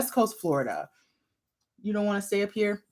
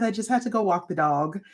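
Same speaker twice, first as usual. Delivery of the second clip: out of breath. Real, not acted. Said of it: "I'm a little out of breath".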